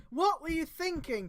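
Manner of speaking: high, slow demanding question. Acted. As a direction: press him for an answer. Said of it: "in a rather demanding tone".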